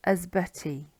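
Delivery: "asbutty" with uh at the start and ee at the end; Welsh Y sounds. Shown as a demonstration. Teacher giving an example of Y, "asbutty" sounded out. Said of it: "it's usually a".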